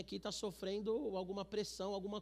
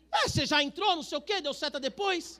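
higher, louder mock retort; mock indignant wife; 6 semitones higher, 8 dB louder than usual. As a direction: snap back at the driver. Wife voiced arguing with driver. (imitando a esposa retrucando ao motorista)

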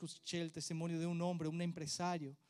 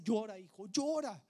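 tender father; 6 semitones higher, 6 dB louder than usual. Retold or imitated. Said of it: "él dice".

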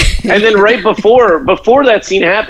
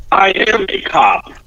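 mock witty retort; 2 semitones higher, slower than usual. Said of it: "he can have the retort".

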